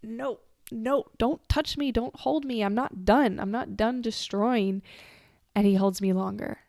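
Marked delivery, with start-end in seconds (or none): 0.0-4.8 higher, pushing him away; imitating a frantic no don't touch me; defiant protest. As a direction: refuse to be held, mock furious. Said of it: "I'm like".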